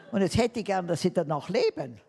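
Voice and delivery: laughing through a cheeky request. Retold or imitated. Telling the new boss with a laugh what she expects. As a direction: chuckle while asking the boss.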